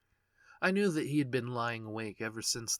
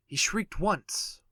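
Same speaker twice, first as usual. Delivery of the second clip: high, loud, slow cry; shrill outcry; 8 semitones higher, 8 dB louder, slower than usual. A narrator's reading. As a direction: stretch it like the shriek. Old man's shriek.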